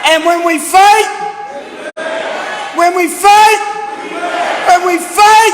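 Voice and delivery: building rally cry. Real, not acted.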